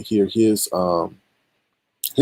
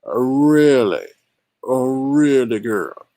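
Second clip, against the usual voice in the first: sarcastic disbelief; 2 semitones higher, much slower than usual. Real, not acted. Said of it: "this is how I'm looking right now".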